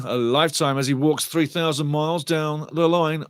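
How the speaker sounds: ordinary delivery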